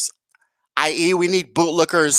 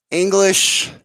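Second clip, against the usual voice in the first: mock British; 3 semitones higher than usual. Shown as a demonstration. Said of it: "British, English".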